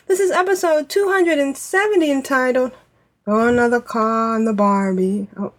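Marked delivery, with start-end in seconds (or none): 3.2-5.3 lightly attempted Australian accent; bad Australian accent. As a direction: have a clumsy go at an Australian accent. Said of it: "very bad Australian accent person".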